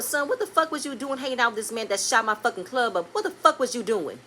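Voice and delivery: a hint of a furious father chewing out his son; real deal scolding. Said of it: "you gonna get the real deal".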